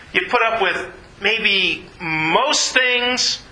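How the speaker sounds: slow, stressing "put", doubtful "maybe most things"; wrong version. Shown as a demonstration. Preacher showing the still-wrong way to bear with people, slow and hesitant. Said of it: "No, it says all things".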